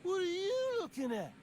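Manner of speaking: high-pitched, defensive retort; touchy challenge. Acted. Sore loser to an onlooker, touchy challenge. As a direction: challenge whoever is staring.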